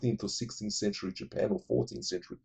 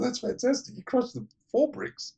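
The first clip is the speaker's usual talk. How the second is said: mock big guy voice; 12 semitones higher than usual. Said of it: "And the big guy goes".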